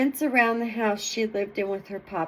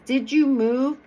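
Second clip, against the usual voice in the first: lightly voiced wolf, louder; a louder, gruff questioning wolf; 3 semitones higher, 5 dB louder than usual. A narrator's reading. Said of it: "in a gruff voice".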